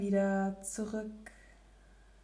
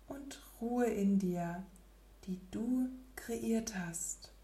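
soft spa whisper; 5 dB quieter than usual. Acted. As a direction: whisper calmly, barely there. Settling into stillness, meditation.

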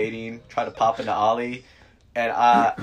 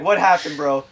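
1 mock concern; 3 semitones higher, 4 dB louder than usual. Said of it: "She's like".

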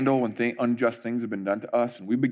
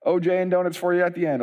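higher, bright casual host voice; laid-back race host welcoming runners; mock friendly race host; 6 semitones higher than usual. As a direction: play a chill fun-run organizer. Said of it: "It's not like".

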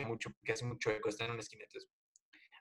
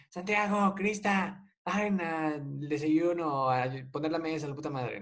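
imitating mom yelling; 4 semitones higher than usual. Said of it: "siempre nos grita en la mañana".

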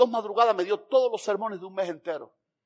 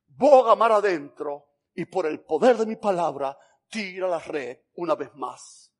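solemn command; 3 semitones lower, 3 dB louder, slower than usual. Acted. Jesus commanding, repeated to the church.

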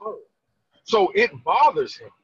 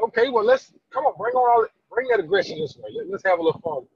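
playful high taunt; 12 semitones higher than usual. Retold or imitated. Father playfully taunting his son.

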